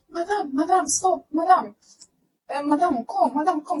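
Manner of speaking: high calling of madam, stop and come; imitated woman calling after her. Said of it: "it was not the way they usually call".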